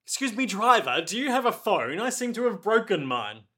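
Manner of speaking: Doppio's voice. Pretend.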